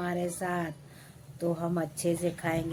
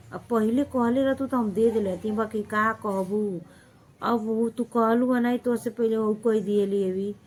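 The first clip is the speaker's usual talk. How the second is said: hammed-up false regret; mimicking fake-sweet neighbour; 3 semitones higher, 4 dB louder than usual. Neighbour woman pretending she gave her cylinder away, mock sweet. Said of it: "ऐसे बोलेंगे".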